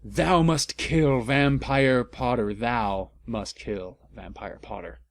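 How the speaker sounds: put-on slow, old-fashioned villain order; a hint of a sinister lord; lightly voiced dark lord commanding; mock villain command. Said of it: "he yelled".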